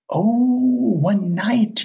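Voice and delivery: sudden high "Oh" of dawning understanding; light the bulb as it clicks; realization. Retold or imitated. Pilot finally catching the clerk's words, surprised. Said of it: "sudden understanding".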